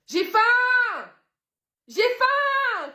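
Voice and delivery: very high, loud demanding cry; baby's hungry wail. Acted. Baby screaming at mum at four a.m., hungry wail. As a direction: wail for food at full pitch. Baby wakes mother at night.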